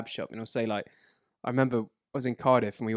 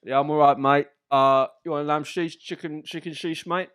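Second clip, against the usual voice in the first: put-on Turkish kebab man accent; 3 semitones higher, 5 dB louder than usual. Kebab man offering the customer meat, Turkish kebab man accent. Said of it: "do the Turkish kebab man accent".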